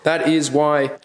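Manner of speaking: hoarse from a cold; rough voice, recovering from a cold; scratchy voice. Real, not acted. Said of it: "It's very scratchy".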